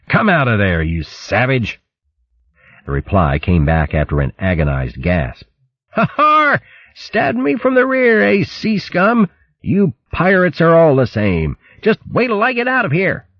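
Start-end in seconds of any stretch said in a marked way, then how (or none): 0.1-1.8 mildly raised stern command; stern shout. Acted. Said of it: "shouted sternly". 5.9-13.3 very high, indignant hare voice; blustering hare. Acted.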